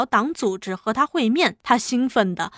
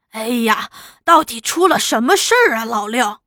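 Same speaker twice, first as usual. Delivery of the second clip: feigned innocence. Acted. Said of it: "假作正经道".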